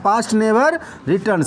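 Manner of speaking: word by word, very slow; slow dictation. Shown as a demonstration. Teacher dictating slowly to students, very slow. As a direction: spell it out slowly for the class to write. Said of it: "teacher slows it for dictation".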